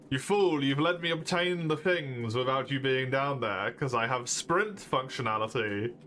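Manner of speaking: gloating villain. Pretend.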